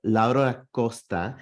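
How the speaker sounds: name said with a little put-on accent; lightly accented Laura Costa. Shown as a demonstration. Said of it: "say it with a little accent".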